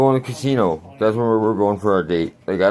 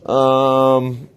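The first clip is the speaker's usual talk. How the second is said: mock lisping waiter voice, lifted and slow; 4 semitones higher, much slower than usual. Mocking the waiter who brought the drink, lisping. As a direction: imitate a lisping gay waiter. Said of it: "what's with the lisp".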